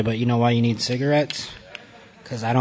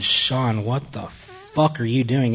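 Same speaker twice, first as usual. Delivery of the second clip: drawn-out imitation of an Indian accent; much slower than usual. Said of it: "in his Indian accent".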